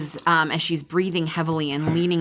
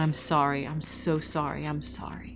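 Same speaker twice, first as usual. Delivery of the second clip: muttering; 6 dB quieter than usual. A narrator's reading. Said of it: "muttering to herself over and over".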